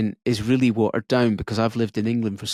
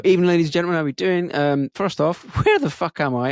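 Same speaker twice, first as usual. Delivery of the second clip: raised stage delivery; stand-up opening line; 4 semitones higher, faster than usual. Retold or imitated. Comic retelling his gig opening, raised stage delivery. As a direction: greet the crowd from the stage. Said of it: "I open with, like".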